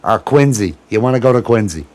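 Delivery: amateur Boston accent impression; attempted Boston accent. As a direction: imitate a Boston local, dropping the r's. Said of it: "I'm trying to do Boston".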